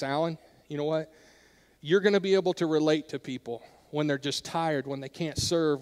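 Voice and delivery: soft, gentle comforting mother's voice; a mother soothing her tired son; tender mother. Retold or imitated.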